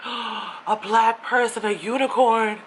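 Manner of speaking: slow, drawn-out mock astonishment; mock amazement. Retelling her first sight of a black person, mock amazed. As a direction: gawk at it like you've spotted a unicorn.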